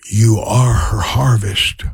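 slow hushed whisper. Retold or imitated. The Holy Spirit speaking to him, slow whisper. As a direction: breathe it slowly, a holy secret. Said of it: "whispered to me".

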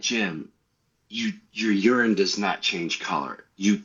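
low, deliberate mock correction; firm wife. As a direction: imitate a wife spelling out the obvious. Wife sets him straight, retold.

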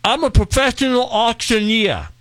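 talking through swollen lips; puffy mouth, words mushy. Pretend. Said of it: "when I sound like this".

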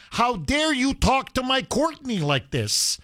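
hammed-up protective parent scolding a manager; mock angry yelling. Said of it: "she was reaming him out, yelling at him".

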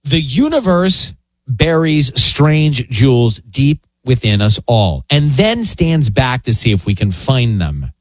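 slow, measured quote read, sinking at the end. Real, not acted. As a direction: read it out slowly and let it settle. Reads out the quote of the day.

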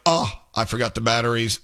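a light, offhand version; casual take. Shown as a demonstration. Host trying a new take for Amanda, offhand. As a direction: toss it off like a real Christmas morning. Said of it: "Is it better like that?".

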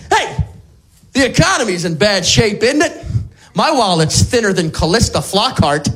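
lightly played confused old-timer telling a joke; mock forgetful joke teller. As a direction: tell the joke as if for the first time. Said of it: "my next joke has Alzheimer's disease".

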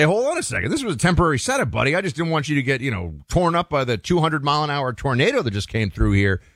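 lightly voiced host pushing back on his guest; indignant homeowner. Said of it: "You say".

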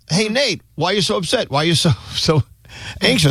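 Nate. Acted. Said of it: "Nate is like this".

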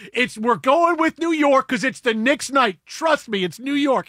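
high, slow and emphatic; mock confident. Retelling his team's answer, mock confident and loud. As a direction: insist with playful certainty. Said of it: "They go".

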